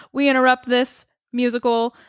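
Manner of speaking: radio announcer. Acted. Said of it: "they have the radio on".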